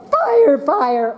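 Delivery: high alarmed cry of fire; scared. Shown as a demonstration. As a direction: shout it like you've seen flames.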